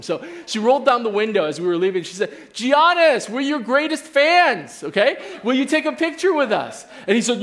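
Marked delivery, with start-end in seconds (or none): 2.5-6.9 calling out to Giannis. Retold or imitated. Wife calling out from car.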